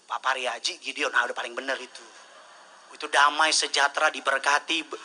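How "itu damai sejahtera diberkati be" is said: emphatic blessing list. Acted. Listing blessings with force.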